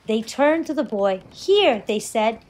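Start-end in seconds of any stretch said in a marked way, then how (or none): 1.3-1.8 higher-pitched grateful offer. A narrator's reading.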